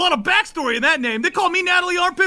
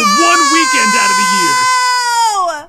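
slow loud riddle; 2 semitones higher, 5 dB louder, slower than usual. Acted. Orc poses riddle loudly.

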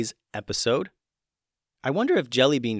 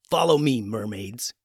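growling. Acted. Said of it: "he growled".

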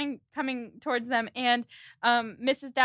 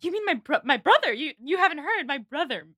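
dawning relief; 4 dB louder than usual. Retold or imitated. Edward learning it was his brother who married, stammering relief. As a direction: stumble into the realisation, interrupting yourself. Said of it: "the relief that washes over his whole face".

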